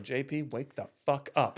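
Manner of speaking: retold shout. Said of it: "we were shouting at him".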